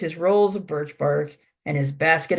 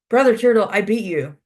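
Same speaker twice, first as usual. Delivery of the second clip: higher, louder opening as the winner; triumphant announcement; 4 semitones higher, 5 dB louder than usual. Acted. Warrior tells the turtle he won the race, triumphant. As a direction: proudly call out the victory.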